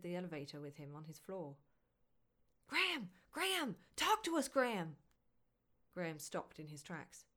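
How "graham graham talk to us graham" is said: shouting. Acted. Paparazzi shouting for Graham.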